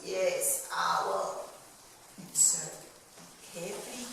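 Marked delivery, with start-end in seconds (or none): 0.0-1.4 a hint of a crusty old coral; lightly lowered crusty yes; mildly crusty coral answering. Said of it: "in a crusty voice".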